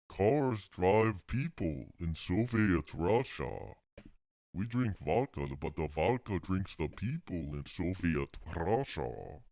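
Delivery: put-on Russian accent. Comedian doing Soviet Russia reversal jokes, mock Russian accent. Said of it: "How do you do a Russian accent?".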